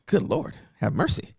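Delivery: playful exasperation; exasperated exclamation. Retold or imitated. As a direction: throw up your hands in mock dismay. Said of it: "I'm like".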